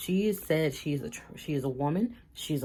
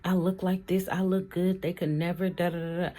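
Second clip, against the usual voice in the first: mock offended rant; 2 semitones higher than usual. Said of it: "ran all the way the fuck left".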